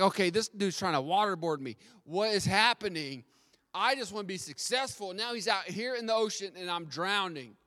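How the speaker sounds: loud, high-pitched imitation of panic; frantic protest. Young man being dunked in the ocean, mock frantic protest. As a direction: act out an alarmed, indignant outcry. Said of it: "like, frantically, he's, he's losing his breath".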